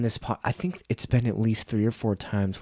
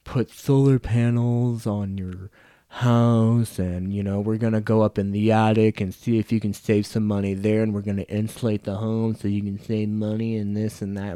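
mocking a smooth door-to-door pitch, slowed at the start; lightly put-on salesman patter; a hint of an eager solicitor selling insulation; pushy salesman voice; 3 dB louder than usual. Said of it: "He's like".

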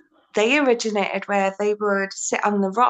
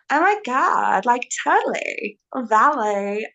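put-on valley girl. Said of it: "that's my impersonation of a valley girl".

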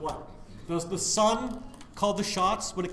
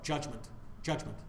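grave low repetition; 7 semitones lower, 9 dB quieter than usual. Real, not acted. Preacher repeats judgment to listeners, hushed and grave. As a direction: lower and softer, dropping each word.

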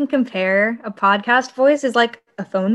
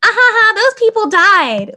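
hyper host laugh; 12 semitones higher, 7 dB louder than usual. Retold or imitated. Host imitating her chipper voice clashing with dark jokes. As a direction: laugh brightly, then drop the dark joke. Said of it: "I'll be talking and I'm like".

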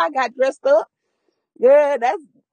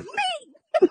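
put-on meek little girl; 4 dB quieter than usual. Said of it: "She was like".

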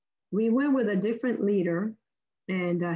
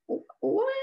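high, startled what; shocked disbelief; 13 semitones higher than usual. Retold or imitated. Travellers stopped at customs, shocked. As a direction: blurt it out in disbelief.

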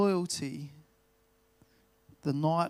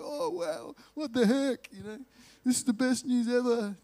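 much higher broad Australian bloke, amazed; Aussie car guy voice; 7 semitones higher than usual. Retold or imitated. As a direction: put on a high, broad Aussie accent, stunned with joy. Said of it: "I don't know why I'm using that voice".

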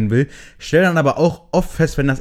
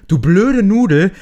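slow, louder exasperated insult; annoyed inner insult; 7 semitones higher, 6 dB louder, slower than usual. Retold or imitated. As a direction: spit out the insult slowly. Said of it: "Da denk ich mir so".

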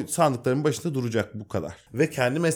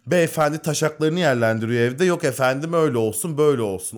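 sneering mock voice; scornful mimicry; 3 semitones higher than usual. Mocking lazy complainers.

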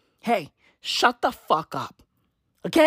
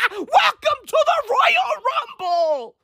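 laughing; 12 semitones higher than usual. Real, not acted. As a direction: crack up while you say it. Laughing at a rapper.

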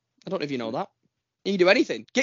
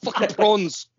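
mock South African film quote; jokey South African impression; South African accent; 3 dB louder, slower than usual. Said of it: "my only point of reference of South African".

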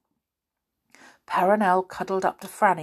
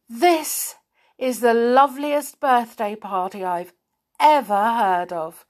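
happily; 3 semitones higher, 4 dB louder than usual. Acted. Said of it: "said Beth happily".

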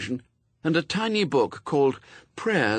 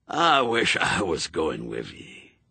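put-on slow, lower, misty-eyed old soldier; old Scots sergeant, wistful; 5 semitones lower than usual. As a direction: let the old man's longing show.

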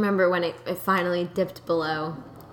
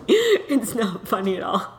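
laughing through words; 3 semitones higher, 4 dB louder than usual. Real, not acted. Joking about landlord's death.

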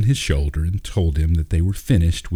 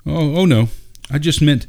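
flustered; 8 semitones higher, 3 dB louder than usual. Acted. Flustered father backpedals.

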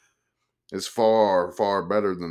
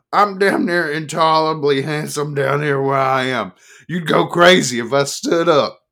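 put-on loud, higher, smug drunk sportswriter; boozy boast; 8 semitones higher, 10 dB louder than usual. Life man bragging to the woman tugging at him, loud and smug. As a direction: brag it, sprawled and smug.

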